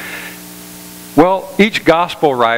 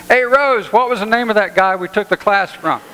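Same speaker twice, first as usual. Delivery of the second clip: pitched way up, calling across to the house; 10 semitones higher than usual. Retold or imitated. Forgetful husband calls his wife Rose from outside, calling out. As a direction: holler the wife's name from the yard.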